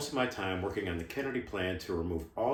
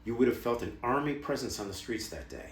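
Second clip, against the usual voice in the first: emphatic, higher-pitched outrage; indignant insistence; 3 semitones higher than usual. Acted. Former ops chief listing skipped security measures, indignant and insistent. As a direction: drive each point home, pitch leaping on key words.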